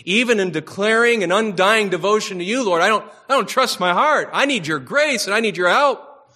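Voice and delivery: a lightly voiced earnest plea; Puritan prayer. Preacher voicing Puritans praying to the Lord, mild earnest plea. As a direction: pray it humbly, pleading for grace. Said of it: "They're praying this way".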